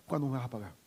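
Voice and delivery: low, soft threatening demand; hint of a choking threat; menacing creditor. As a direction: growl it at the one who owes you. Servant threatening his debtor.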